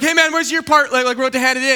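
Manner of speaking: mildly indignant questioning; confronting a teammate. Acted. Acted group confronting slacker teammate.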